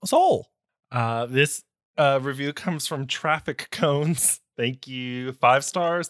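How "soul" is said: squealed high. Acted. Squealed punchline.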